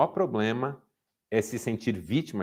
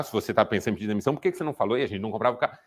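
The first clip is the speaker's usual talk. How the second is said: hypothetical tantrum; much faster than usual. Pretend. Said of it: "eu ia dar um piti".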